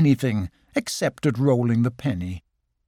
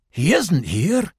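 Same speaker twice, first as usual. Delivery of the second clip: Rabbit voice; 3 semitones higher, slower than usual. Acted. Rabbit answers.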